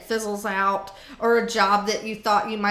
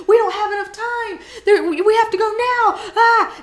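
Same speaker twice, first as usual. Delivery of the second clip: much higher and louder, rushed panic; panicky scared voice; 10 semitones higher, 8 dB louder than usual. Retold or imitated. The scary voice telling you there's no time, loud panic. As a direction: sound like fear is chasing you. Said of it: "the voice that spooky and scares you".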